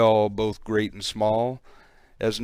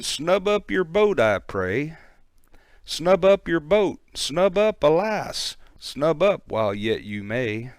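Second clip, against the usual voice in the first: frantic warning shout; 6 semitones higher than usual. Acted. Man on the bank shouting a warning to the boat, frantic. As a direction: call out high and urgent from the bank.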